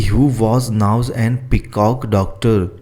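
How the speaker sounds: very slow, word by word for copying; slow dictation. Shown as a demonstration. Teacher dictating the question to students, slow and careful. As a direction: read it out slowly so students can write. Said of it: "तो यहाँ पे आप लिख लीजिए".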